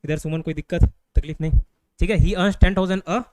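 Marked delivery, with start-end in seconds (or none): 2.2-3.2 very slow, word by word; dictating slowly. Shown as a demonstration. Teacher dictating the example to students, very slow. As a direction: stretch each word for note-taking.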